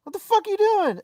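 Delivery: loud, high-pitched indignant rant; mock furious at the vendor; replaying the fight with the vendor, loud and high; retold angry outburst. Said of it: "I was so mad".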